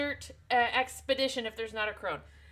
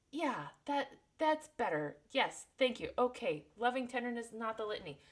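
softer, relieved little voice; the fetus moat calming down, hushed; soothed fetus moat; 7 dB quieter than usual. Retold or imitated. The fetus moat thanking Jessica, soft and relieved. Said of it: "And then fetus moat says".

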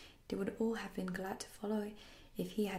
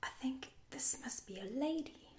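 higher, tentative and mildly afraid; scared voice; 6 semitones higher than usual. A narrator's reading. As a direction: realise it with a touch of dread. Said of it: "he said in a scared voice".

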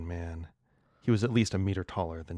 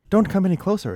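much higher and louder cry; exclaiming; 12 semitones higher, 12 dB louder, faster than usual. Acted. Alexa exclaiming at the virus, loud and high. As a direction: cry out to stop him. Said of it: "exclaimed Alexa".

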